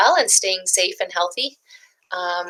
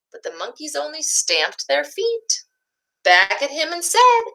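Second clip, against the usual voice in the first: put-on gentle picture-book narration for young listeners; storybook reading. A narrator's reading. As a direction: read it like story time for little ones.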